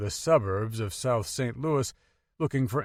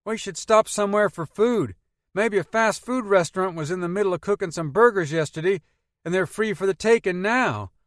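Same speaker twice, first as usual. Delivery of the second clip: put-on country boy accent; 9 semitones higher, 6 dB louder than usual. A narrator's reading. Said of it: "in his country boy accent".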